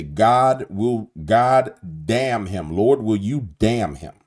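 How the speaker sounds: forceful slow prayer against him; praying curse. Shown as a demonstration. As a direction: call down judgment in prayer. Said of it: "I will say".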